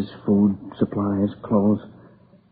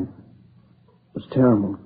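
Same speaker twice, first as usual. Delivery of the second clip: tearful. Real, not acted. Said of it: "Crying like a kid".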